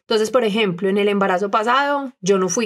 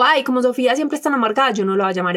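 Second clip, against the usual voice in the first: mock dismissive friend; 3 semitones higher than usual.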